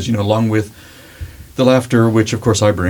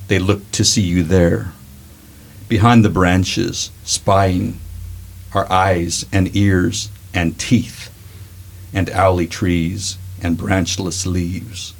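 Sleepy Hollow voice; 2 semitones lower, 3 dB quieter, slower than usual. Acted. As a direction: draw it out slow and eerie, like a ghost tale. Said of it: "Sleepy Hollow voice".

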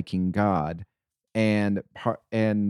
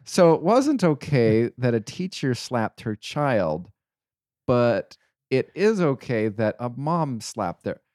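incredulous outrage; 3 semitones higher, 3 dB louder, slower than usual. Retold or imitated. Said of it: "And I'm like".

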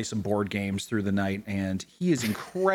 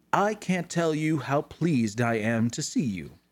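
lightly voiced pleased wizard; a hint of a courteous tiefling; 2 semitones higher than usual. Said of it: "says the tiefling".

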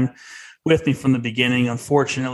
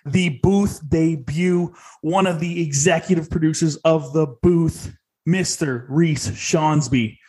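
announcer; 3 semitones higher, slower than usual. Acted. Host introduces guest grandly.

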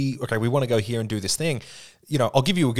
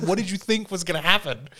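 smug GM; 8 semitones higher than usual. Retold or imitated. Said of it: "And he's like".

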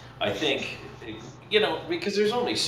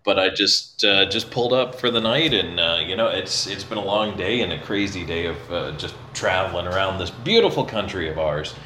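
echoey room; 4 dB louder than usual. Real, not acted. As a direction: voice ringing in a bare echoey room. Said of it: "it's echoey in here".

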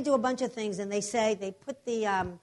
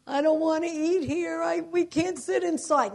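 put-on upset little girl; 5 semitones higher than usual. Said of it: "my daughter starts crying".

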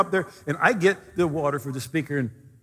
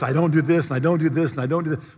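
louder, smug ticking off of rules; mocking list; 4 dB louder than usual. Preacher mocking people earning grace by rules. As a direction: tick off each rule self-righteously. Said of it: "they got the list".

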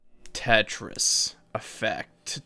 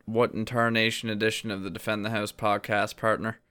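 put-on old prospector; 2 semitones lower, 6 dB quieter than usual. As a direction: ham up a frontier old-timer. Hammed-up folksy intro.

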